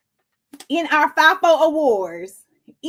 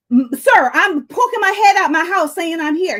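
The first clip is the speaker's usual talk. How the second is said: exasperated retort; 4 semitones higher, 3 dB louder than usual. Retold or imitated. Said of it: "looking at me like I wasn't making sense".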